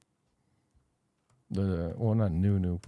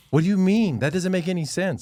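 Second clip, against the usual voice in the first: higher, louder baffled protest; mock disbelief; 8 semitones higher, 4 dB louder than usual. Husband feigning confusion at his wife, loud and baffled. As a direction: play dumb, loudly puzzled.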